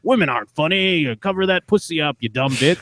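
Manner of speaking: lightly mocked sexist dude; dude character. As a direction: imitate a dismissive guy with a slight put-on voice. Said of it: "some dude character be like".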